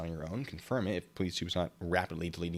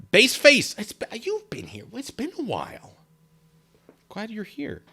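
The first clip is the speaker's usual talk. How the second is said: much higher cheery greeting; high playful greeting; 14 semitones higher, 7 dB louder than usual. Real, not acted.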